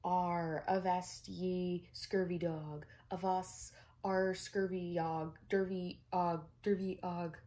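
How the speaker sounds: loud, slow pirate growl; bellowing toy pirate. Acted. Talking egg pirate toy bellowing, slow and loud. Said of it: "pirate that bellowed".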